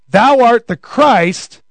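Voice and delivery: slow, ringing "Thou art the Christ"; proclaiming confession. Retold or imitated. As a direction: proclaim it boldly. Peter's confession from Matthew.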